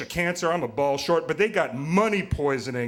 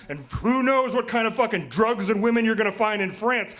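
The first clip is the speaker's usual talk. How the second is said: much higher, louder nagging wife; 8 semitones higher, 4 dB louder than usual. Retold or imitated. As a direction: squeal it like an exasperated girlfriend scolding. Couple bickering in cancer ward.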